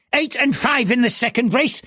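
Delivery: put-on high old gambler's voice on eight and five; eager old man reading out his bet; high, urgent old bettor; anxious old man.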